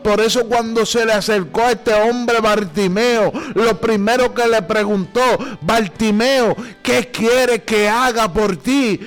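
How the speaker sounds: insistent, driving sermon delivery; forceful preaching. Real, not acted. Preacher urging listeners to be specific with God, forceful preaching. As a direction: preach it with rising urgency.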